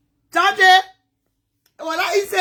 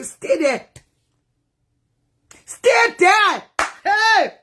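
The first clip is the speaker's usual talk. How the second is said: retold warning; 3 semitones higher, much slower than usual. She repeats their warning to stay put, insistent. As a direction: repeat the order, rising on the second. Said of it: "I told him, they say".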